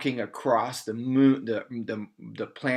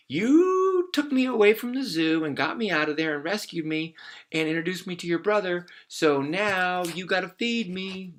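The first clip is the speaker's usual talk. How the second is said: demanding; 7 semitones higher than usual. Acted. Monkey demanding bananas.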